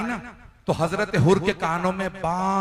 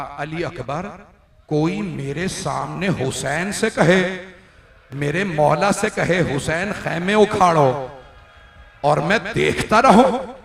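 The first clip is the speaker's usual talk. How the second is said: impassioned lament; 4 dB louder, slower than usual. Acted. Uncle tells why he weeps.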